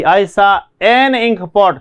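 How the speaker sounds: very slow, each word apart; slow dictation. Shown as a demonstration. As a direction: spell it out for the class. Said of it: "एन क्यों लगा?". (बहुत धीरे बोलकर)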